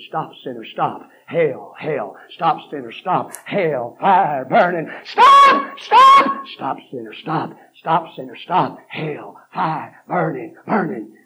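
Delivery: loud, punchy warning calls; retold preacher shouting. Preacher imitating Doctor Percy Ray warning sinners, loud. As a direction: bark it at the sinners. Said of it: "He'd scream".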